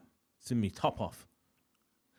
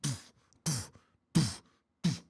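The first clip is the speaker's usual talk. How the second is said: short puffed door-slam noises; spaced-out vocal thuds; imitated door locking; 4 semitones higher, slower than usual. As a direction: mouth each door shutting, one after another. Imitates doors being locked in turn.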